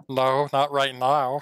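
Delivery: slow, lightly voiced fox; unhurried little fox reply; fox in clean voice. Fox answers about eating the birds present, slow and measured. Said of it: "and go".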